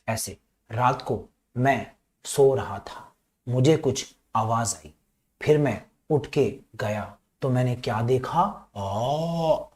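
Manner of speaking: slow, soft mock storytelling; lightly acted bedtime-tale demo; child telling story. Shown as a demonstration. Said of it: "अब ये सुनाएगा story".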